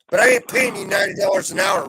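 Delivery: loud, half-joking protest about money; joking shout. Real, not acted. Shouting at Ruffy about the ninety-dollar fee, loud. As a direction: bark it at the friend like a joke.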